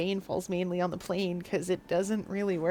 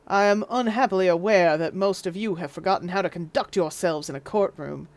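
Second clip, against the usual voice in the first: put-on Southern judge accent; 2 semitones lower than usual. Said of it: "wrong judge accent".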